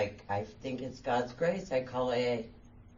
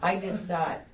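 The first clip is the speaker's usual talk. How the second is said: laughing; 6 semitones higher, 4 dB louder than usual. Real, not acted. Laughs at own craving.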